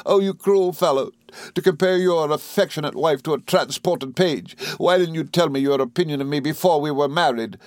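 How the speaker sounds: high, tearful wail of reproach; Dora, sobbing. A narrator's reading. Wife reproaching cruel husband, high acted sobbing. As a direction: pour out the hurt in a high, crying voice. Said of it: "sobbed Dora".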